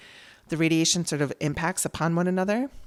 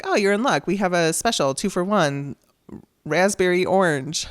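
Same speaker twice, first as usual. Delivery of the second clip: upbeat salesman; 3 semitones higher, 4 dB louder than usual. Retold or imitated. Dispensary clerk greets a worried wife, upbeat and loud. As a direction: chirp it like a cheery shop clerk.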